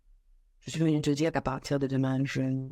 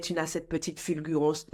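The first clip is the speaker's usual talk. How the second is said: usual speaking voice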